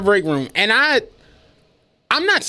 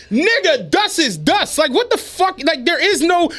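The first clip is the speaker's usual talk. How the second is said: much higher, pressing the point; exasperated insistence; 8 semitones higher than usual. Retold or imitated. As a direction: insist like it's obvious.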